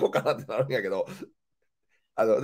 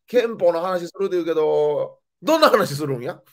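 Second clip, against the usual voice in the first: imitating mom; 5 semitones higher, 4 dB louder than usual. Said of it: "返事必要な会話をずっとしてくんのよ".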